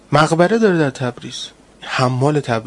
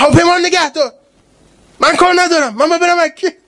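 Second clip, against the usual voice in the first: high, louder stubborn demand in a put-on voice; insistent demand; 13 semitones higher, 4 dB louder than usual. Mystic telling the official to hold the plane, high insistent order. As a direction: insist like nothing else matters.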